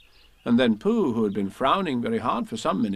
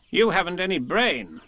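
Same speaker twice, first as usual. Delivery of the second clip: kindly; 7 semitones higher than usual. A narrator's reading. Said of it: "said Rabbit kindly".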